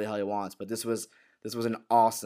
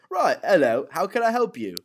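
raised, louder mock greeting; put-on gangster greeting, pitched up; Alfie; 6 semitones higher, 5 dB louder than usual. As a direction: greet the visitor in a higher character voice. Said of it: "He goes".

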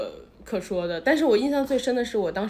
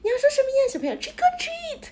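put-on much higher sing-song voice, coaxing a kid; cutesy staff voice. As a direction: talk to a child like a theme park cast member. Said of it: "他就说".

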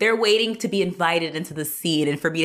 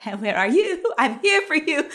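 mock high call; 8 semitones higher than usual. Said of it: "I'm screaming".

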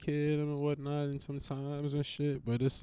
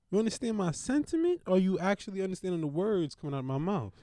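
Chris Tucker; 4 semitones higher, much faster than usual. Retold or imitated. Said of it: "Shout out to Chris Tucker".

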